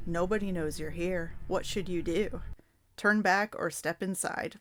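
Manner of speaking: ordinary delivery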